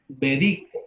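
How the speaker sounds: "Médico" said me-DI-co, stress on DI; stress on the middle syllable. Shown as a demonstration. Teacher pronouncing the word for the class, stress on DI in "Médico". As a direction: lean on the second syllable of "Médico". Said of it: "la voy a pronunciar de tres".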